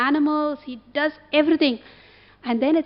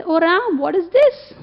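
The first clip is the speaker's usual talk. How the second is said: a higher, louder plea to Ram; despairing complaint; 5 semitones higher, 4 dB louder than usual. Pretend. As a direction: ask why it went wrong, pleading. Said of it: "Jatayu could have said".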